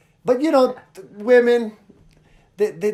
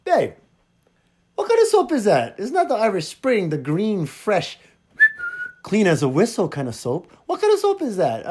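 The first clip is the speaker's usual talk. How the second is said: puzzled husband, pitch jumping high on the questions; retold puzzled questioning; 4 semitones higher than usual. Husband quizzing his wife about strange soap, mock puzzled. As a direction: re-enact a baffled, insistent query.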